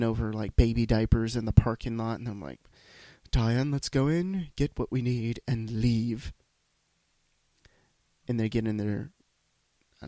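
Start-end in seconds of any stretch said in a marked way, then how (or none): 3.3-6.3 snooty rich shopper. Retold or imitated. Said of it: "my idea of a rich person".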